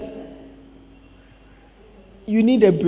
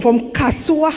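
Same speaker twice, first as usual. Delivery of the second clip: emphatic shout; slower than usual. Real, not acted. Stressing the long walk.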